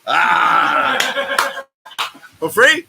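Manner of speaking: loud, high startled exclamation; surprised shout. Real, not acted. Host reacts to friend's joking offer, loudly surprised. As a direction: yelp then ask in disbelief.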